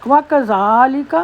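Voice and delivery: وَكَذَلِكَ with a short, light "wa" and a rising end; short fatha. Shown as a demonstration. Teacher showing the short zabar on وا, short light wa. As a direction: keep the "wa" of وَكَذَلِكَ short, one finger long. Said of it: "وا کا چھوٹی زبر ہے اس لیے چھوٹی آواز ہوگی".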